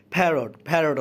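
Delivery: প্যারট with a breathy ph, 'pherot'; aspirated p. Shown as a demonstration. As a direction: air after the p in প্যারট. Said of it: "পি এর উচ্চারণ ফ হয়েছে". (প্যারট শব্দে প-কে ফ-এর মতো বলা)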